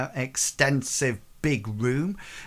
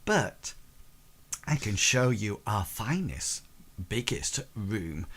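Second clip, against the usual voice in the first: coy tavern hostess. Acted. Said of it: "Well, she says".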